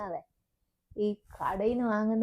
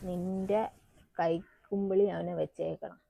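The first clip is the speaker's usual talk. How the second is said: confiding undertone; 3 semitones lower, 6 dB quieter than usual. Acted. Mother gives secret advice softly.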